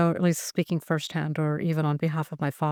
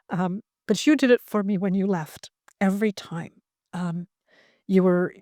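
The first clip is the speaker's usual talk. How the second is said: tearful. Real, not acted. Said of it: "I'm sorry I'm crying".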